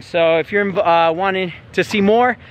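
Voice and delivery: breathless after the climb; talking while catching breath. Real, not acted. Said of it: "I'm a little out of breath".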